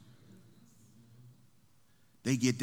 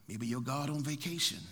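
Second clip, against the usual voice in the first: sarcastic; 4 dB quieter than usual. Acted. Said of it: "Elijah comes with a bit of sarcasm".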